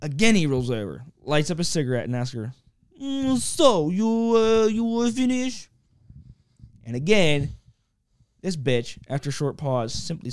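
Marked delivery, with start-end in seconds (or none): 3.0-5.7 high put-on Italian lover voice; lightly hammed Italian lover, pitched well up; macho lover voice. A man in bed asks his partner if she finished, in a hammed-up high voice.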